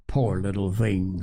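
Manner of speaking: compassionate. A narrator's reading. Minister's wife pitying sick children, gently compassionate. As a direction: say it with understated pity. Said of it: "said Missus Henderson compassionately".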